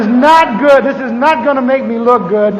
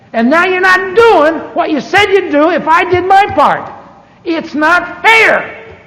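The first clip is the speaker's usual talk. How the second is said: despairing complaint to God; 4 semitones higher than usual. Retold or imitated. Pastor retelling his prayer on the floor, pleading in despair. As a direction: pour out a broken protest, stretching each "not fair". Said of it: "and I said".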